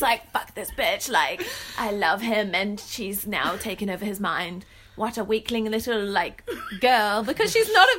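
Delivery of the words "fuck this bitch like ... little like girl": a hint of a witch voice; lightly voiced jealous witch. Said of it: "Why do you sound like a witch?".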